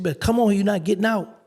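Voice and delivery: high, loud mock-serious warning; teasing loud call. Counselor teasing him about release, loud high warning. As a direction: tease him loudly as if it's bad news.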